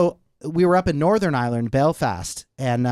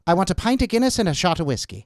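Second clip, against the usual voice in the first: put-on Irish accent; 2 semitones higher than usual. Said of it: "with that accent".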